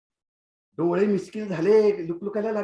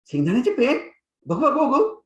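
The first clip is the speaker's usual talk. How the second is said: higher, louder eager teacher; eager curiosity; 6 semitones higher, 6 dB louder than usual. Acted. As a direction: pounce on it, let me see. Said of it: "अगदी उत्सुकतेने मला विचारलं". (उत्सुक, उंच आणि मोठ्या आवाजात विचारणे)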